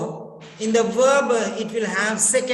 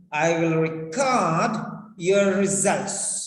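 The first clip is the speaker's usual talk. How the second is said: record with the second syllable cord stressed; 3 semitones lower than usual. Shown as a demonstration. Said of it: "So stress is on cord".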